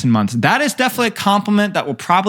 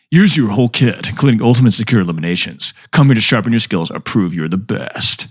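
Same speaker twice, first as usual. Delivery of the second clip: announcer voice; 3 semitones lower than usual. Shown as a demonstration. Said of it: "I gotta get my announcer voice".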